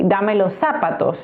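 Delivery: "zapatos" stressed on the first syllable, ZA, falling after it; falsche Anfangsbetonung. Shown as a demonstration. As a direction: wrongly hit the opening ZA of "zapatos".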